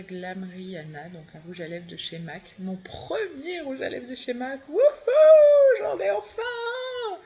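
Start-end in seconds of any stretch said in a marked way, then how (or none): 2.6-4.6 higher, giggling through the words; a delighted giggle over a first lipstick; laughing with delight. Real, not acted. Thrilled about her first MAC lipstick. 4.7-7.2 much higher, louder, slow cheer; a thrilled squeal of finally; excited whoop. Real, not acted. Cheering over her first MAC lipstick.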